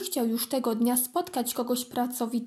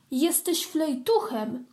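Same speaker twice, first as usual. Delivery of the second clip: teasing; 4 semitones higher, slower than usual. Acted. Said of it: "dodała".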